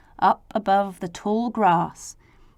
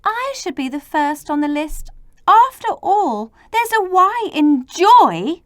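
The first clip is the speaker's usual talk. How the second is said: crying out; 8 semitones higher, 4 dB louder than usual. Acted. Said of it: "Then Y cried".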